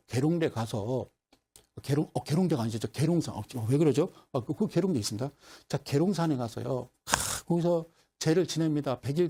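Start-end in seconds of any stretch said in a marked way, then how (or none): none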